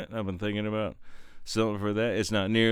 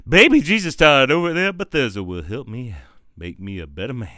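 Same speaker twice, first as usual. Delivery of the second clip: loud hammed-up appeal; loud, playful invocation; mock prayer; 11 dB louder than usual. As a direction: call out like a comic preacher. Mock prayer to Jesus Todd.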